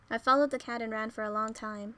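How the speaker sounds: plain reading voice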